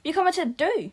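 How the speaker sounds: high, loud wail of fear; terrified cry. Acted. Stranded girl wails they will die, high and loud. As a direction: break into terror. Panicking girl fears death.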